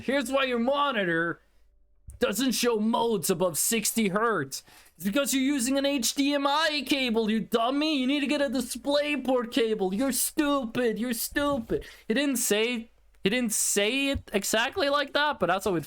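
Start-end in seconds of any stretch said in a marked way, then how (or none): 0.0-11.8 lightly put-on American accent, talking down; mocking American accent. Imitating the YouTube guy's American accent, mocking the viewer. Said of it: "he had an American accent".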